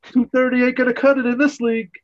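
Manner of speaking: loud, high-pitched yell at the players; Kramer heckling. Retold or imitated. Imitating a fan yelling at the game, full-voiced heckle. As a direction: holler it like a rowdy ballgame fan. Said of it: "Kramer starts yelling at the game".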